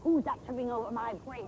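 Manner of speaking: troll voice. Acted. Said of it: "I'm going to be the scary, ugly troll".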